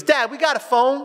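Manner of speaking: put-on high, rising kid's question; child asking Dad. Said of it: "He comes up to me, he goes".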